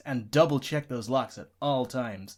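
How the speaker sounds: deadpan to camera. Acted. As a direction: deliver it straight as a deadpan public warning. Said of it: "he's then gonna deadpan and face the camera".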